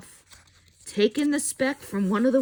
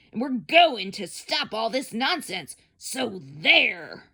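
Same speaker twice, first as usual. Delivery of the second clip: mild mock shouting. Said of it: "came shouting".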